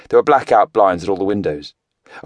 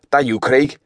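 higher, impatient Welsh lad; tetchy Welsh accent; 6 semitones higher than usual. A narrator's reading. Teenager behind a metal door checking who knocks, tetchy Welsh accent. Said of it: "spoke with a tetchy Welsh accent".

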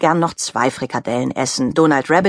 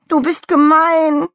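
high, slow, loud whine; cried-out accusation; 12 semitones higher, 5 dB louder, slower than usual. Acted. Donald Rabbit calling his friend mean, crying out. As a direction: wail it as a hurt protest. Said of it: "rief Donald Rabbit".

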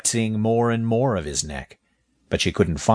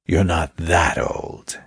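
whispering; slower than usual. Acted. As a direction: breathe it like a secret. Snake whispers.

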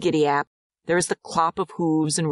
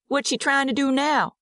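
put-on high-pitched curious little girl; child's voice; 9 semitones higher than usual. A narrator's reading. Servant's daughter asking about the blind girl, childlike. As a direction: ask it in a small girl's high voice.

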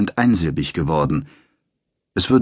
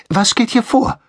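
much higher voiced woman, firm; fearless woman; 3 dB louder than usual. A narrator's reading. Yumeko confronts the soldiers, high and fearless. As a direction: step in calm and unafraid.

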